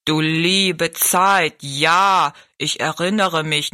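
very slow, ponderous giant; stately giant remembering. A narrator's reading. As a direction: stretch it out like a great giant. Riese erkennt das Kind. (bedächtiger, gedehnt sprechender Riese)

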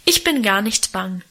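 ordinary delivery, nothing marked

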